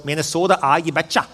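lightly imitated Minnesota accent. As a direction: put on a hint of folksy Minnesota talk. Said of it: "That's how they talk there".

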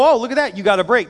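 mock delighted surprise. Preacher mocking the listener who found a government check, in a gleeful tone. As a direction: act out a hammed-up pleased discovery.

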